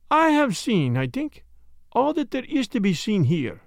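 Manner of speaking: Poirot. Acted. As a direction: voice a precise Belgian sleuth, lifted in pitch. Story figure, Belgian detective.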